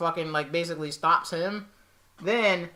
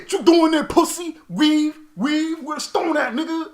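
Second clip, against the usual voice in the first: taunting voice; 8 semitones higher, 3 dB louder than usual. Retold or imitated. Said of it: "voiced taunt".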